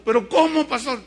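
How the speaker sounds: taken-aback question to the pastor; mock protest. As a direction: object as a startled churchgoer. Voices a shocked congregant's objection.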